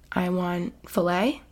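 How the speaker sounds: mom's order in a hushed whisper; soft breathy request, barely voiced; whispered quote. Mom quoted wanting filet.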